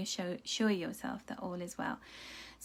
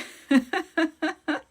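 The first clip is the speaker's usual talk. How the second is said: laugh; 7 semitones higher, 8 dB louder than usual. Real, not acted. Reader amused by a picture on screen, loud laugh. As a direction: burst of high, loud laughter.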